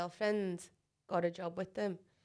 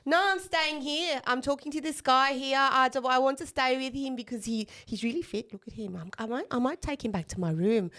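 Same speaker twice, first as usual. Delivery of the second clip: mock drunk friend, louder and higher, dragging the start; lightly voiced tipsy South African friend insisting; 4 semitones higher, 4 dB louder than usual. Tipsy friend refusing to leave the club guy, louder and higher. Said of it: "She's going".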